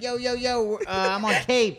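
high-pitched mock pimp voice; Sandbuck. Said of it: "Sandbuck sound like a black pimp?".

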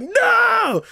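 high, loud panicked no; mock panicked yell at the vase; alarmed cry. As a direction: yelp it out in panic. Man pleads, vase levitating.

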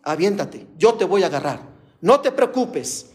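mild, high-pitched calling out; imitated father's shout. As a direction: call out urgently without really shouting. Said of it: "empezó a gritar".

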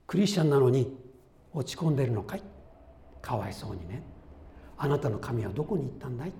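a sneering, pitying taunt that ends quick; mocking scorn. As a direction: jeer at a downcast believer. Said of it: "と責められる。". (落ち込んだ信者をあざける皮肉な口調)

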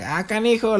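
high-pitched mock reaction; amused Spanish exclamation. Showing how we react in Spanish, high exclamation. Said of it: "different reaction".

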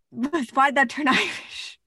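giggling through the question, amused; laughing at herself. Real, not acted. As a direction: laugh at your own slip. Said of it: "I became Irish for a second".

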